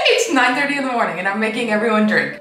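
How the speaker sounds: quick words through laughter; laughing. Real, not acted. Vlogger confessing morning mimosas to viewers, laughing. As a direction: laugh at your own early drinking.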